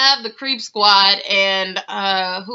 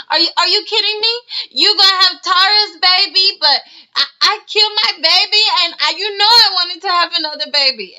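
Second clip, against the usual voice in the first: much higher, louder, fast indignant shriek; mock outraged Amina; 10 semitones higher, 4 dB louder than usual. Imitating Amina yelling at Peter over a vasectomy. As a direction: shriek at him in disbelief. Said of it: "She's like".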